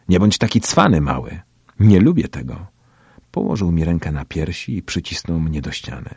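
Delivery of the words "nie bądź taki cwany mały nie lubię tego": put-on pushy tough-boy warning; bullying warning. A narrator's reading. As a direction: warn the kid off. Bully warns the narrator.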